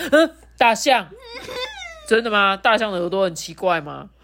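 startled, questioning exclamation; astonished. Acted. Lulu learns about elephant ears, mildly astonished. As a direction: ask it as if taken aback. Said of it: "鲁鲁都很惊讶".

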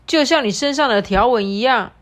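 loud, pushy demand; bossy animal voice. Acted. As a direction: press the zebra for an answer.

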